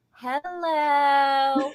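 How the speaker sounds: laughing hello; a laugh breaks through the greeting; mock hello; imitating Jessie. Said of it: "Jessie's just like".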